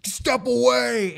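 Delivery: drawn-out mock-heroic command; mock tough lawman. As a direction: imitate an armed guard's order. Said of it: "It's like Dirty Harry shit".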